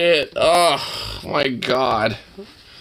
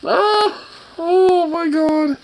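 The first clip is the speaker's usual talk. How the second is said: real laughter; 10 semitones higher, slower than usual. Real, not acted. Cracking up at a toy.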